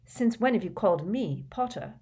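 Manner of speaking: pointed, controlled challenge; retort. A narrator's reading. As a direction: throw the question straight back. Harry throws the question back.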